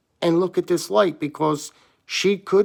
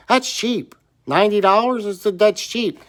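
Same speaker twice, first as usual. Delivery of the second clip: bragging; 5 semitones higher than usual. Retold or imitated.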